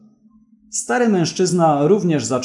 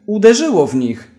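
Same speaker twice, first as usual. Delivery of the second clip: higher and louder, full yell; triumphant shout; 6 semitones higher, 6 dB louder than usual. A narrator's reading. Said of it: "krzyknął i się zaśmiał".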